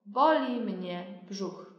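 boli mnie brzuch said slowly, stress on boli; slow model phrase. Shown as a demonstration. Teacher says phrase slowly for class to repeat. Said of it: "跟着我说".

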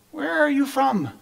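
high-pitched anxious question; afraid. A narrator's reading. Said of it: "he was even more afraid".

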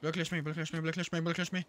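loud, high repeated orders; urgent shouting. Real, not acted. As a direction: bark it to your teammate. Urgent call to teammate.

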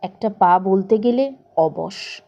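plain reading voice

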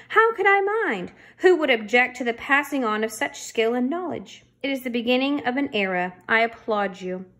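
lightly voiced effusive boss, pitch swooping up at the start; grandiose official. Boss applauding the officer's young understudy, lightly grandiose. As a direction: gush formally, with a touch of pomp.

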